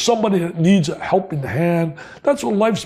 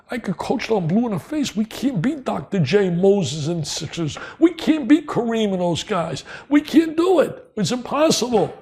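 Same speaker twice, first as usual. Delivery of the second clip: complaining; 3 semitones higher than usual. Retold or imitated. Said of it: "and I'd complain".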